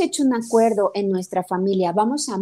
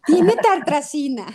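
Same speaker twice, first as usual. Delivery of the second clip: imitating daughter, laughing; 5 semitones higher, 4 dB louder than usual. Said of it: "Imagínate a mi hija".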